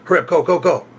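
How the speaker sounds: high, pressing hurry-up; urgent hurry. Retold or imitated. Women urging the Uber driver to go. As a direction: rush the driver out. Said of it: "and they go".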